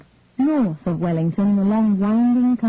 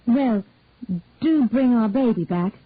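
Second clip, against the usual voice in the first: a light, breezy attempt; 3 semitones higher than usual. Grandmother to the young couple, attempted light tone. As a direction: keep it airy despite the worry. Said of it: "attempting a light tone".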